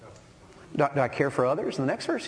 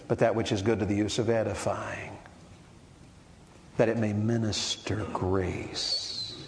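softer, slower reading of the verse; tender scripture reading; 4 semitones lower, 4 dB quieter than usual. Real, not acted. Preacher gently reading Ephesians, tender and slow. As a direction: let the verse land softly.

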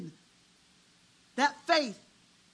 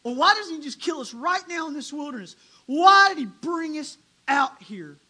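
crying out; 7 dB louder than usual. Retold or imitated. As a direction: swell into a desperate outcry. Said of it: "rose up and cried and said".

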